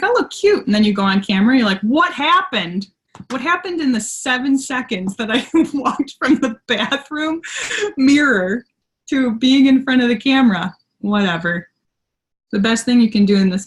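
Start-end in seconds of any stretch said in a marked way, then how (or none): 0.0-0.7 high, perky little self-compliment; pleased self-talk. Acted. Mimics pleased look in mirror. 1.8-10.8 playful, higher-pitched bewilderment; mock dismay. Mock shock at seeing herself.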